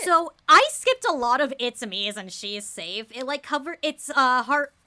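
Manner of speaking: laughing excitedly. Real, not acted. Loud laughing explanation.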